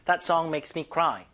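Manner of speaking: slow, careful teaching read; slow model sentence. Shown as a demonstration. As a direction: read it slowly to copy. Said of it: "나쁘지 않아요". (천천히 또박또박)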